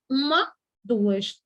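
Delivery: slow counting. Shown as a demonstration. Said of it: "É dissílaba".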